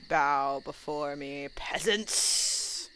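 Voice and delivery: slow commanding dark lord; hammed-up villain proclamation. Gamer hams a villain line.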